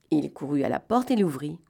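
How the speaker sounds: ordinary delivery, nothing marked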